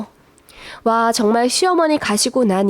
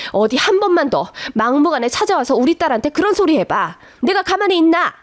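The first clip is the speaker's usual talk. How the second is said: mild threat; 3 semitones higher than usual. Retold or imitated. Mother threatening mother-in-law.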